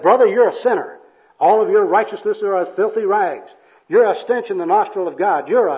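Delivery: hammed-up hellfire accusation; fiery condemnation. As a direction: berate them like a zealous evangelist. Acted evangelist berating the bum.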